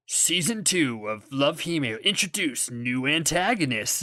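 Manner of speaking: slow, drawn-out mock preview announcement; mock trailer voice; show teaser announcer. Mimics a show's episode teaser.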